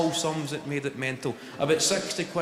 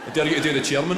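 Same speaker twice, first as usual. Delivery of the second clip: ordinary talk, nothing marked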